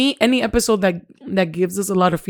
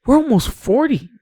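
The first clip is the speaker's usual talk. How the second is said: higher-pitched, half-serious dread; mock alarm; 5 semitones higher than usual. Host reacting to nearing forty, mildly alarmed. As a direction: realize it with a touch of alarm. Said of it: "That's scary".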